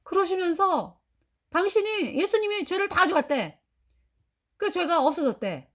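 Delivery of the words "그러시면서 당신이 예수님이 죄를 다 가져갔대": ordinary talk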